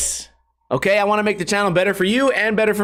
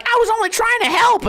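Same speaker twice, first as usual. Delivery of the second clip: put-on much higher, whiny kid voice; mock whiny kid. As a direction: imitate a hurt kid defending himself. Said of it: "And they're like".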